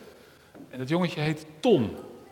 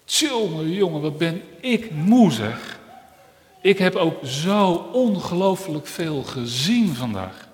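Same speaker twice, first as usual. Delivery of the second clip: tired eye; 2 semitones higher, 8 dB louder, slower than usual. Acted. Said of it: "En toen zei het oog".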